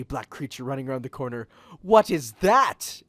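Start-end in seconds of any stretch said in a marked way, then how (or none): 1.8-3.0 loud, slow alarmed yell. A narrator's reading. Rachel yells at the furry thing, alarmed. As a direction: Rachel yells in fright at the creature. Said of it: "Rachel yelled".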